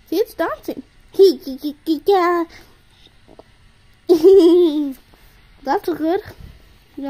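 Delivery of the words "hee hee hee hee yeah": loud giggly laughter; a playful loud giggle; giggling. Acted. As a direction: laugh along at the dancing toy. Toy dancing.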